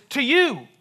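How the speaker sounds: "you" very high and loud; stress on YOU. Shown as a demonstration. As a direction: punch out "you" in "To you". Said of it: "just emphasize a different word".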